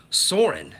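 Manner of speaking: breathy whisper of the ride name; hushed aside. Pretend. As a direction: whisper it like a secret.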